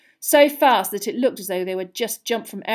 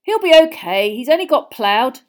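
reassuring; 5 semitones higher, 11 dB louder than usual. A narrator's reading. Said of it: "Charlie said reassuringly".

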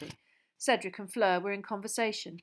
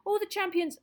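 put-on high, louder squeaky boy's voice; squeaking Colin; 13 semitones higher, 6 dB louder than usual. Boy squeaking at the teacher to let Harry take his bag. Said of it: "squeaked Colin".

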